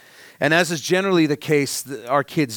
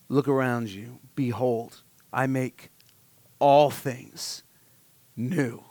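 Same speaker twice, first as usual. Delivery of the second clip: tender hushed quote; 2 semitones lower, 4 dB quieter, slower than usual. Retold or imitated. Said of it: "Jesus spreads out his arms and he says to me".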